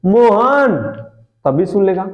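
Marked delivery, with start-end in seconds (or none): 0.1-0.8 calling a bit louder. Shown as a demonstration. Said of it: "थोड़ा सा दूरी है".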